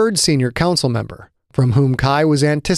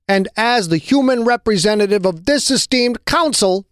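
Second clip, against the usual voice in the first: higher, put-on sincerity; falsely earnest; 8 semitones higher than usual. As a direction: lay the earnestness on thick, full of it. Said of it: "sounding so earnest he couldn't possibly be anything but full of it".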